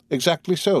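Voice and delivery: high-pitched, pleased agreement; delighted. A narrator's reading. Major agrees with the Count, delighted. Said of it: "said the delighted major".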